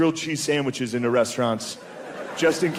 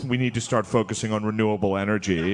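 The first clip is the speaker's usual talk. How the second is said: lightly voiced earnest dad, pitched down; gently mock a preachy dad, lower; mock MSNBC dad; 5 semitones lower than usual. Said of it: "Some guy every night at dinner like".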